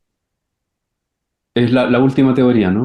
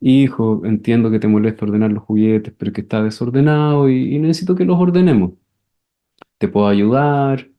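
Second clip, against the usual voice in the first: patient mom; 3 semitones lower than usual. Acted. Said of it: "mamás que podrían no angustiarse".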